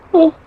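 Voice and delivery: a big tired yawn. Real, not acted. Tired host yawning after three podcasts in a row. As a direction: let a real yawn slip out. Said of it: "I'm sorry for yawning".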